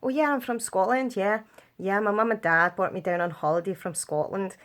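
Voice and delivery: put-on Scottish accent. Kid telling holiday playmates a made-up origin, Scottish accent. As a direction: pretend to be a chatty Scot. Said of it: "Sometimes I'd be Scottish".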